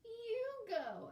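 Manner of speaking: put-on high, slow, crying child whine; whining little boy. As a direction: whine like a tired small kid. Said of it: "he pointed to Herschel".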